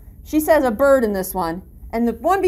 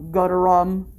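bullfrog call; 7 semitones lower than usual. Shown as a demonstration. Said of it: "bullfrogs say more of a".

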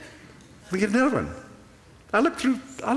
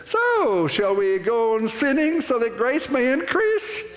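high incredulous question, So leaping up; Paul's question; 5 semitones higher, slower than usual. Retold or imitated. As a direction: voice Paul's challenge, pitched up. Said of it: "and he says".

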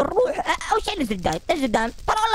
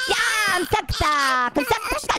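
indignant scolding; 9 semitones higher than usual. Pretend. Scolding Mario caught watching.

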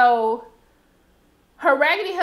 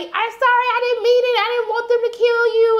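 lightly voiced Misty; 10 semitones higher, 5 dB louder than usual. Misty apologizing to the bird.

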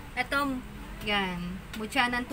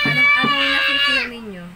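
excited shout; 9 dB louder than usual. Real, not acted. Live seller hypes the viewers.

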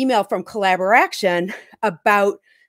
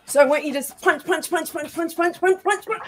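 higher, rhythmic punch punch chant; high-pitched coaching; 7 semitones higher, 3 dB quieter than usual. Acted. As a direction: pump them up, coach style. Leading a punching workout.

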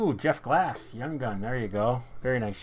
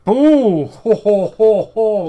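loud, high whoops of delight; excited whooping; 9 semitones higher, 17 dB louder, much slower than usual. Real, not acted. Card breaker reacting to a big pull, excited whooping.

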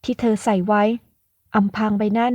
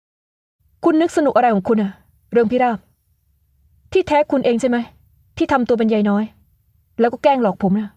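mild acted anger. Young man accusing the woman who tricked him, angrily. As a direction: confront her for tricking you. Angry confrontation.

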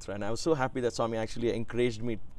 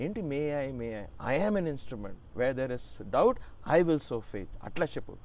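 firm coaching; 2 semitones higher, faster than usual. Retold or imitated. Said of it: "there was a firmness in his voice, like a coach".

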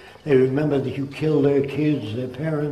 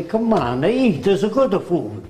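put-on Italian accent; 4 semitones higher than usual. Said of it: "If you're brought up in Italy".

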